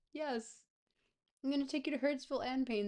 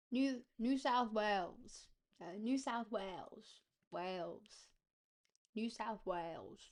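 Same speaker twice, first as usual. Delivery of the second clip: put-on Australian accent that slips toward British; attempted Australian accent. Player practising the state's name, attempted Australian accent. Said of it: "we're not doing a British accent".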